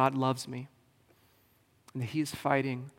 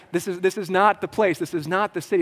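Jedi mind trick; 5 semitones higher, 7 dB louder than usual. Retold or imitated. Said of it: "kinda like a Jedi mind trick".

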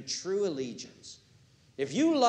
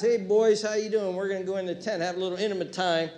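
brash swagger; 3 semitones higher, 4 dB louder, faster than usual. Retold or imitated. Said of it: "and he laughs".

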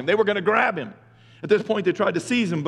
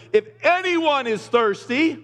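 loud voice; 6 semitones higher, slower than usual. Retold or imitated. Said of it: "said in a loud voice".

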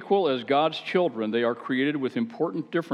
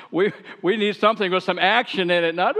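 louder, higher hammed-up he-man voice; mock macho guy; 6 semitones higher, 5 dB louder than usual. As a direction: play the guy who wants explosions. Mock macho wanting action.

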